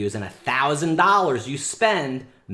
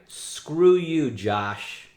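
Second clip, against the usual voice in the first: louder, punched dismissal; angry jab; 4 semitones higher, 4 dB louder, much slower than usual. Real, not acted. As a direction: spit it at the rival. Rant at rival copying him.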